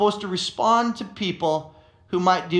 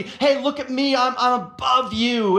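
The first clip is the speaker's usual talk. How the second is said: superior boast; 3 semitones higher than usual. Pretend. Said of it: "there's a sense of superiority".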